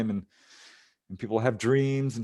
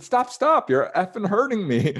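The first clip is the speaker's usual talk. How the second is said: high, loud acted-out outburst; pained protest, re-enacted; retold cursing protest; 9 semitones higher, 6 dB louder than usual. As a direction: imitate yelling at someone hurting you. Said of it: "let out a stream of curses".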